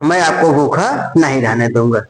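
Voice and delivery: slow soothing coax; husband soothing his hungry wife, slow and gentle. Retold or imitated. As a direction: slowly coax a crying wife. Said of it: "उनको मना रहे थे".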